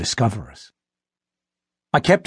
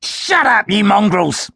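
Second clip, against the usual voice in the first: scornful Vampanese; 9 semitones higher, slower than usual. A narrator's reading. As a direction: sneer it at the dogs. Vampanese berating the wolves.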